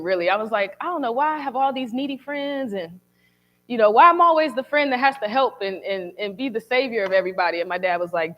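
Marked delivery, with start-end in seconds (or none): 0.8-7.6 mild retold whine of grievance; complaining. Daughter grumbling to her dad about needy friends, mildly complaining. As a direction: lightly replay a complaint to a parent. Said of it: "I was complaining to him".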